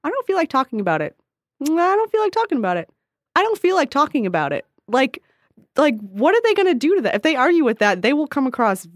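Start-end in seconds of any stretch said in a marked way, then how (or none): 0.0-4.6 evenly repeated, higher-pitched brush-off; calm repetition. Shown as a demonstration. Showing how to answer gossips, calm repetition. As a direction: repeat it calmly, giving nothing away. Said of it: "repeat the same sentence calmly".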